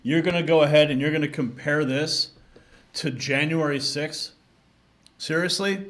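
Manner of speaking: loud disbelieving whoa, really?; incredulous outburst. Real, not acted. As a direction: scoff loudly at the comparison in disbelief. Host reacts to compared clip.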